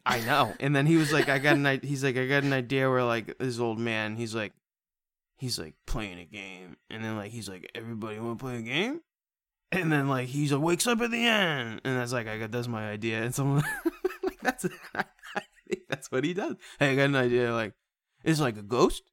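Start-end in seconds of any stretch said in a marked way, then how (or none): 1.3-1.8 loud stoner pitch, cut short; lightly played stoner, louder; James Wan. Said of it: "just like a stoner who's like". 2.2-13.2 stoner rambling through a film pitch; lightly voiced stoner dude; James Wan. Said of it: "just like a stoner who's like". 16.8-19.0 loud stoner pitch; lightly put-on stoner, louder; James Wan. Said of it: "just like a stoner who's like".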